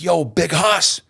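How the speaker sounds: high, hyped-up greeting, imitating him; a rapper's greeting. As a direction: call out his name like an old friend. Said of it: "he's like".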